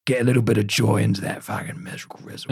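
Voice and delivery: Billy Butcher. Retold or imitated. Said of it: "Do Your Best Billy Butcher impression".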